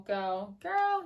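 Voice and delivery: amateurishly acted expressive exclamation; half-acted, playful exclamation. Shown as a demonstration. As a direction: try out two different expressive readings. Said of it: "I'm not very good at ... those, um, acting".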